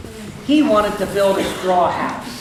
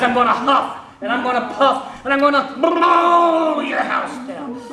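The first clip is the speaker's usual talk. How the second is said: threatening wolf; 4 semitones higher than usual. Acted. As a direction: huff and puff, then bellow the last part.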